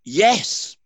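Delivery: high, loud, booming answer from above; voice from the sky. A narrator's reading. Voice from the sky answers the dangling man, booming. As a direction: answer like a voice from heaven. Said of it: "said the voice".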